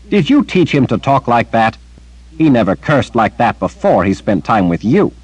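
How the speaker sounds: lightly voiced disapproving elder; Anne scolding. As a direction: rebuke him like a stern matron.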